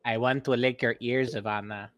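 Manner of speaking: creepy teasing. Pretend. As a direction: say it loud and creepy on purpose. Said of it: "that's why I said you're not a person".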